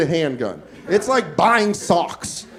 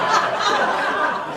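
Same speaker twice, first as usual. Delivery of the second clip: mock scream; 14 semitones higher, 4 dB quieter than usual. Mock reaction to bullet curving.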